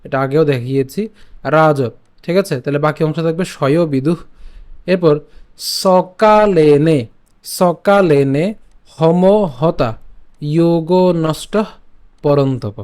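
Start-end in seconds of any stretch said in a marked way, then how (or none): 5.8-12.8 stretched teaching repeat; long, slow সকালেনে. Shown as a demonstration. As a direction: drag সকালেনে out syllable by syllable. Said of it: "repeated slow demo".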